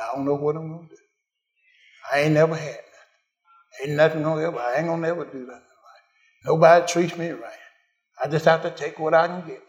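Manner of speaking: mock a hopeless complainer, understated; mildly sorry-for-myself muttering; defeated grumbling. Acted words of defeated believer.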